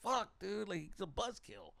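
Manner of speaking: high, mildly exasperated mock complaint; retold annoyance. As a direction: act out being put out by a killjoy. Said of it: "I used to get so mad".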